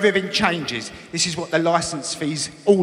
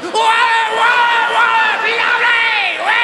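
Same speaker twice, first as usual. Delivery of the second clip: high loud gulping wahs; hammed-up gulping; 13 semitones higher, 4 dB louder than usual. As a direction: gulp custard like a maniac. The speaker gulping custard.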